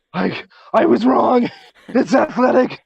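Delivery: high, slow put-on voice; a silly voice quoting someone; mock quoted voice.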